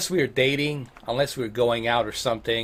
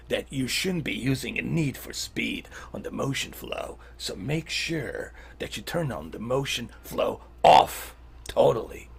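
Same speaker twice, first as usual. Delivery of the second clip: snake voice. Acted. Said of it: "I'll give you the settings and the snake voice".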